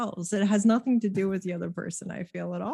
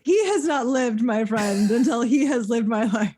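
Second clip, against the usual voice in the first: mock dramatic; 3 semitones higher, 5 dB louder than usual.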